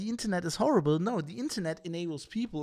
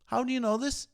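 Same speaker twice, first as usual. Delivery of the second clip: higher, louder repeated challenge; the challenge a reporter should make, louder; insistent questioning; 5 semitones higher, 5 dB louder than usual. Retold or imitated. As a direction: press the question hard twice. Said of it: "You're not going".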